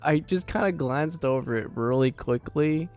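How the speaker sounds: flustered protest. Real, not acted. Flustered denial after being teased.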